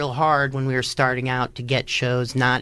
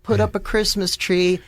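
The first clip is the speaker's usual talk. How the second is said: mock announcement; 8 semitones higher than usual. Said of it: "If I show up to".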